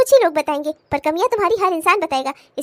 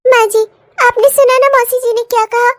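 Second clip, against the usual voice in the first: hurt and sad; 6 dB louder than usual. Acted. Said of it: "तू इतनी उदास क्यों है".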